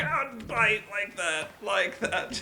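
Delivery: high, loud, drawn-out yell; alarmed cry. Real, not acted. Player bitten by shark while treading water, alarmed. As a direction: cry out loudly as if just bitten.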